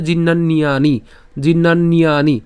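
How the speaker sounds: জীর্ণান্যানি linked as one word; joined up. Shown as a demonstration. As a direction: run the "n-ni-yaa" together in জীর্ণান্যানি. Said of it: "অর্থাৎ একসাথে বলে". (জীর্ণান্যানি একসাথে জুড়ে)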